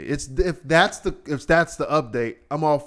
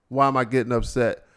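normal talking voice

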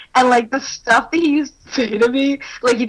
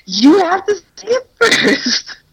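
put-on drunk; 6 semitones higher than usual. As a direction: play it slightly drunk and bossy. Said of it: "drunk, so I'm like".

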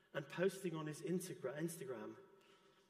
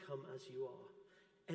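slower and softer, like Jesus inviting you in; soft, slow and tender; 3 semitones lower, 4 dB quieter, much slower than usual. Shown as a demonstration. Preacher gently voicing Jesus's welcome to the church, soft and slow. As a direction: let it land gently and slowly. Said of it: "because Jesus says".

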